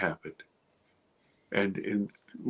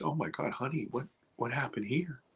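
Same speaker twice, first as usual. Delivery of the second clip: worried mom; 10 dB quieter than usual. Retold or imitated. Mom finds the bruise.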